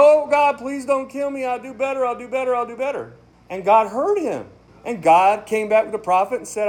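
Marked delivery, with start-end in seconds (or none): 0.0-3.1 mock pleading. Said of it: "He started crying".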